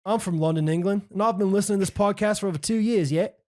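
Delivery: hammed-up English accent from London; cheeky Londoner voice, read with gusto. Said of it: "I'm gonna say it in his accent".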